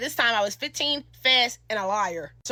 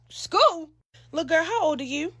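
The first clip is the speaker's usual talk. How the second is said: high, shocked question; 5 semitones higher than usual. Retold or imitated. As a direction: ask in disbelief. Girlfriend shocked at her age.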